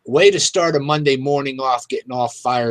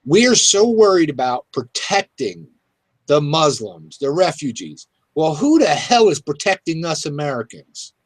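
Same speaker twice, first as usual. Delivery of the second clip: higher, heated rant at the government; frustrated outrage; 5 semitones higher than usual. Real, not acted. Radio host rants to co-host, real frustrated outrage. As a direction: vent real frustration, pitch climbing. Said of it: "it's really frustrating to me".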